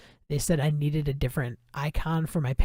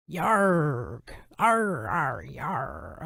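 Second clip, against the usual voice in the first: pirate growl; much slower than usual. Pretend. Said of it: "Pirate voices".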